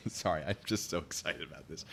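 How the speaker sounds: real excited whisper to the camera; whispered giggle. Real, not acted. Vlogger whispers her excitement to viewers, giggly whisper. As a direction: breathe it out with a giggle, barely voiced.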